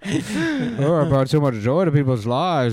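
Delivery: high mock-mournful whine; mournful sad clown whine. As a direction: whine like a self-pitying clown. Robin Williams as sad clown.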